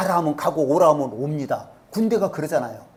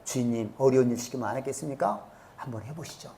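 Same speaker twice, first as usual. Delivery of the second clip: low, soft voice of a servant; gentle persuading; 7 semitones lower, 11 dB quieter than usual. Retold or imitated. Servants talk angry master into trying, gently persuasive. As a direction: coax your master quietly, retold. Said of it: "그 부하들이 설득을 하죠".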